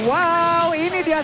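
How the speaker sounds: loud amazed wow; excited wow. Real, not acted. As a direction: gasp out a big wow. Reaction to multi-angle attack. (seru kagum yang keras)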